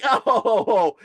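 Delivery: high, loud mock demon laugh; hammed-up demonic chuckle. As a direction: imitate a mocking demon's ho-ho laugh. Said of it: "And the demon starts laughing".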